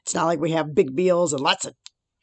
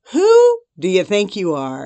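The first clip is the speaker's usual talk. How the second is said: chastising God; 3 semitones higher, 7 dB louder than usual. Retold or imitated. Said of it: "God chastised me and said".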